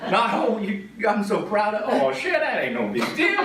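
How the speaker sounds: can barely get the line out for laughing; real laughter retelling grandma's reaction; laughing through it. Real, not acted.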